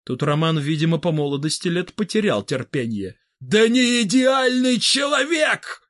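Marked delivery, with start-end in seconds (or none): 3.4-5.8 loud, high angry shout; yelling. Acted. Roman losing patience with Vybegallo, angry shout. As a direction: lose patience and yell it. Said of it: "заорал он".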